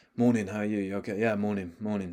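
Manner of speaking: quiet, muted, held-back, subdued voice. Recalling greeting people on anxious days, with a quite quiet past-self greeting. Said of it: "Like quite quiet because that was the tone that I was operating at".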